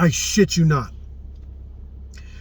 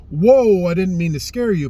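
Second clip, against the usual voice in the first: mild raised, apologetic mock reassurance; apologetic whoa; 4 semitones higher, 5 dB louder than usual. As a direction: imitate a friend backing off, sorry he startled you. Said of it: "he kinda got into this, like".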